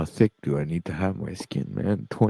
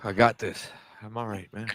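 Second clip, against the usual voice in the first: crying; 3 dB quieter than usual. Real, not acted. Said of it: "He's still crying".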